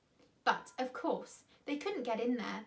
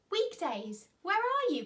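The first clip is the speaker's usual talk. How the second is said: louder and higher, calling through the house; called out; 8 semitones higher, 5 dB louder than usual. A narrator's reading. George calling for the boys in the house, loud call. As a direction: call out to find them. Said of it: "called George".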